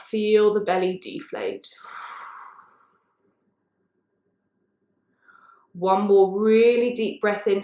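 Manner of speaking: slow, drawn-out breathing cues; guided breathing. Real, not acted. Yoga teacher guiding listeners through belly breaths, guided breathing. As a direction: lead the breath slowly, with long pauses.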